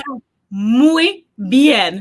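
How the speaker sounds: slow, drawn-out impressed remark; impressed agent. Retold or imitated. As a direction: stretch each word like an amazed official. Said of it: "And he's like".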